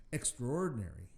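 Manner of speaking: extraordinary set apart and said with deliberate weight; stress on extraordinary. Real, not acted. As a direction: lean on the word extraordinary. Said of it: "I can't stress that word enough".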